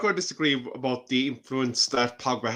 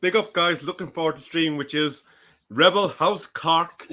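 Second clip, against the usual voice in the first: Irish accent; 2 semitones higher than usual. Shown as a demonstration. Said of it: "do it in your Irish accent".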